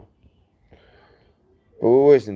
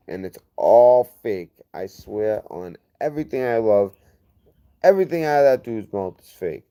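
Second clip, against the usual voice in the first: angry; 2 semitones higher, 5 dB louder than usual. Real, not acted. Ranting about people spreading lies.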